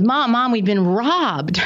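a boy calling out to his mom in mock panic; alarmed child. Acted child alarmed at robbery.

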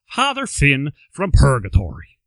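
a clumsy put-on Irish accent; a hint of a badly faked Irish priest. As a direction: fumble through an Irish accent. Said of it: "That's a horrible Irish accent".

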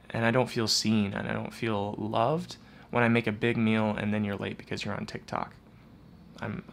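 soft, subdued hurt; a lightly voiced hurt wife; sad without criticism. Wife telling husband how hurt she is, softly. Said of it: "that intense sadness".

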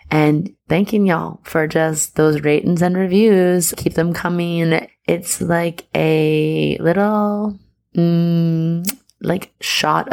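slow, lightly put-on Southern twang. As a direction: drawl out the thanks in a hint of Southern twang. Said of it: "I'll bust out my Southern twang".

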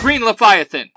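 high, forceful hero shout; yelled morph call. A narrator's reading. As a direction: yell it like a transformation call. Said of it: "Hey Lin yells".

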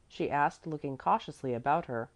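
ordinary delivery

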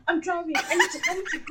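imitating a friend cutting her off, laughing; dismissive attitude. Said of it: "she was just giving me attitude".

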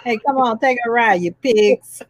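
mock-menacing wiseguy goading cops; Robert De Niro impression. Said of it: "It's my Robert De Niro impression".

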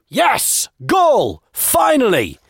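high celebratory cheering; excited shout. Acted. Man shouts to a stranger as the player scores, excited. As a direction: cheer each word like a fan. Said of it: "he shouted".

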